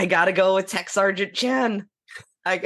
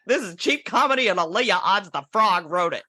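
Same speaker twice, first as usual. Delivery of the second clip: mock enraged quote; 4 semitones higher than usual. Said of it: "she just keeps getting more and more enraged".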